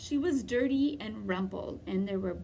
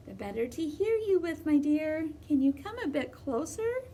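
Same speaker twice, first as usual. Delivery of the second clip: fake grandmother voice; 6 semitones higher than usual. Wolf posing as grandmother.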